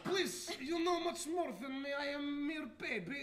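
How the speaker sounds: put-on half-shouted, playful Russian accent; light Russian accent, mock humble. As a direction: beg in broken English like a Russian. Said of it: "do this accent".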